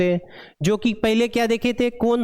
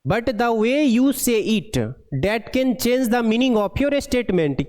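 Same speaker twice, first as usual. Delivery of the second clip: slow, even dictation of an English passage; deliberate read-aloud pace; slow textbook reading; much slower than usual. Acted. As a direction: read each word out slowly for the class. Reads English text aloud slowly.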